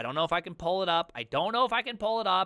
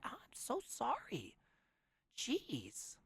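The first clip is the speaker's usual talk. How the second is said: mock sorry; 4 semitones higher, 13 dB quieter, slower than usual. Mock salesman apology, softer.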